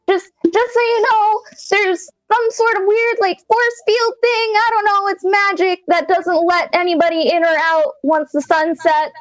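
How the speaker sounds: high, calling out nervous villager; shouting villager. Acted. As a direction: call out from behind, anxious. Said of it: "shouting at you from behind".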